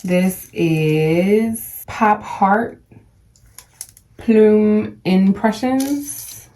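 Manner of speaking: slowly spelling out Pop Heart Plume Impressions; unsure, drawn-out brand name; careful name reading. Real, not acted. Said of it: "I could be jacking up these names".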